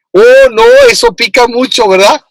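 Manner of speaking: squealing very high "Oh, no"; waitress warning it's spicy, high squeal; imitating the waitress. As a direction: play the waitress alarmed by the heat, pitch shooting up. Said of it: "y hasta la mesera dice".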